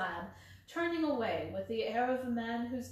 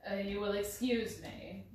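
bland. Acted. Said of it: "said Holmes blandly".

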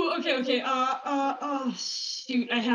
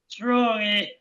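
put-on Australian accent. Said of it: "becoming more Australian".

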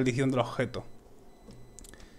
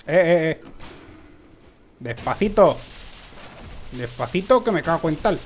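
yelling; 2 semitones higher than usual. Real, not acted. Yells at enemy in game.

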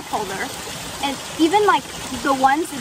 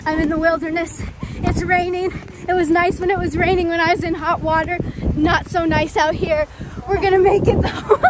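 a hint of Bear Grylls; 2 semitones higher, 4 dB louder than usual. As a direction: narrate like a wilderness show host. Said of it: "This is Bear Grylls".

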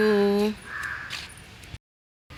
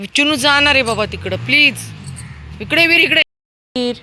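high, loud pleading call; 9 semitones higher, 8 dB louder than usual. Real, not acted. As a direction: beg the dogs to part. Pleading, calling dogs. (कुत्र्यांना मोठ्याने विनवणी)

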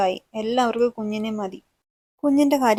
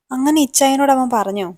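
higher and louder in disbelief; shocked question; 4 semitones higher, 7 dB louder than usual. A narrator's reading. Wife hearing shocking news from her husband, loudly disbelieving. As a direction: blurt it out, stunned.

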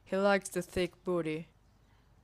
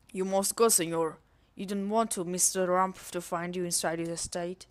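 mock Spanish accent. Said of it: "for my bad accent".

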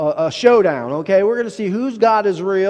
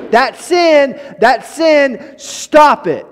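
stern rebuke; 4 semitones higher, 4 dB louder, much slower than usual. Retold or imitated. God voiced rebuking sin.

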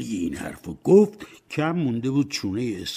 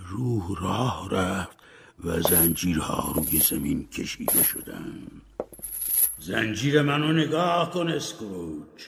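a hint of a mournful ghost; solemn ghostly warning; lightly voiced ghost; 5 semitones higher than usual. Dead partner Marley warns Scrooge about his chains, solemn.

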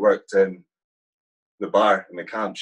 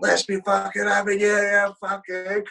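hammed-up officer's roar, much higher and louder, dragging out the end; imitating commander bursting in; 13 semitones higher, 3 dB louder than usual. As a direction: storm in barking like a raiding officer. Commander storms cafe with pistol.

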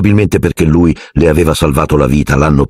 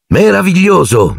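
mock-effusive gushing; 13 semitones higher than usual. A narrator's reading. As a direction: gush it, outdoing your twin's greeting. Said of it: "disse George spingendo Fred da una parte".

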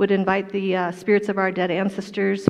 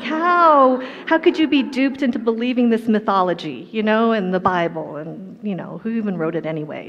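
mock incredulous. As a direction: scoff at the idea, then trail off. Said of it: "and I'm like".

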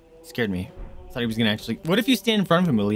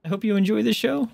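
high cheerful thanks; 10 semitones higher than usual. Real, not acted.

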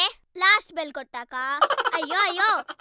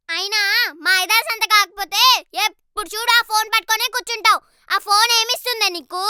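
louder nagging about the phone; scolding grandma; 5 dB louder than usual. Acted. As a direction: tell her off like a fed-up grandmother.

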